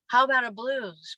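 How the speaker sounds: hesitant suggestion, "How" lifted a touch; tentative. Shown as a demonstration. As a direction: float "How about a blues?" unsure.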